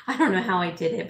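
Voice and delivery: chuckling through the words, a bit quick; laughing. Real, not acted. Laughing as she tells friends she caught a skunk. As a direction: laugh it out, amazed at herself.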